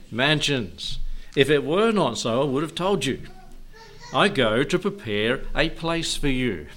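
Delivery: declamatory Bible quotation; scripture recitation. Acted. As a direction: proclaim the verse to the congregation.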